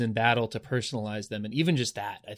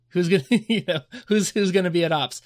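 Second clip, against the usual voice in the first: raised, louder mock bickering; mock squabble; 6 semitones higher, 5 dB louder than usual. Imagined Andorian crew arguing over who works ops, mock squabbling. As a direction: play-act a crew squabbling over duties.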